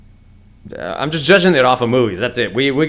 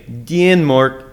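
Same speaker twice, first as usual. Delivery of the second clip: lightly put-on Danish accent; attempted Danish accent. Host repeats his only Danish word, in a mock Danish accent. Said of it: "That's all I know".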